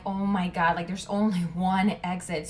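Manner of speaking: retold alarm at the single exit. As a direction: realize you're trapped. Realizing she is trapped.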